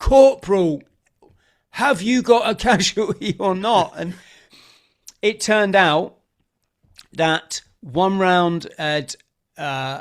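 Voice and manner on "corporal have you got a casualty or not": loud, high-pitched shouting. Retelling the commanding officer shouting down the phone, imitating someone shouting. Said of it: "shouting down the phone".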